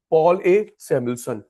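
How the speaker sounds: slow and deliberate. Shown as a demonstration. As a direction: spell out Paul A Samuelson slowly, word by word. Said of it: "uncle का नाम याद हो चुका है". (धीरे-धीरे, रटवाते हुए)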